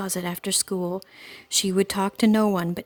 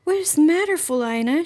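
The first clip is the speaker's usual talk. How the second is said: worried mother calling; 8 semitones higher, 5 dB louder than usual. A narrator's reading. Mother calls up into tree.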